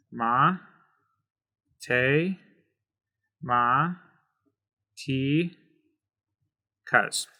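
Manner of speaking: "ma, te, ma, ti, cuz" with a pause after each syllable. Shown as a demonstration. Teacher breaking a Spanish word into syllables for learners. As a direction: split "matemáticas" into separate syllables. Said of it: "breaking it apart".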